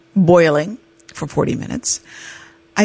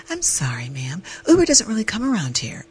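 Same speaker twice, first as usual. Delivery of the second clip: gentle clerk; 3 semitones higher, 6 dB quieter than usual. Retold or imitated. Front desk clerk voiced.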